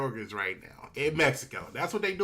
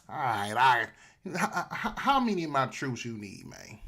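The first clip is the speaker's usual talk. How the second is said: pleading Mexico; 6 semitones lower than usual. Acted. Voices Mexico backing down, pleading.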